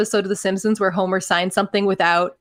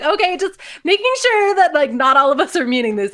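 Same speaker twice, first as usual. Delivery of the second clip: raised pitch, lightly acted worry; mock-anxious checking; 7 semitones higher, 3 dB louder than usual. New citizen checks nobody means the pledge, mock-anxious and high. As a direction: check nervously, half in jest.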